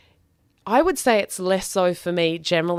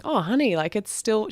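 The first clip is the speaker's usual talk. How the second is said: gentle teacher; 4 semitones higher than usual. Retold or imitated. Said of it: "she was like".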